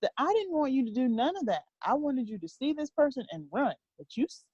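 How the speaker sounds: lightly voiced exasperated parent, going on and on; God. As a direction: imitate a frustrated lecture to a stubborn child. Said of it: "he just keeps going on".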